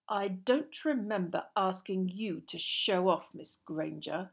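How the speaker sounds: slow, cold schoolmaster; cold rebuke. Acted. Snape tells off Miss Granger for showing off, coldly. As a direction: put the pupil down slowly and icily. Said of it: "said Snape coldly".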